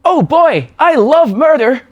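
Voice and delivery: lightly voiced detective who loves murder; gleeful murder fan. Improv detective to his boss, a touch gleeful. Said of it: "like an improv scene".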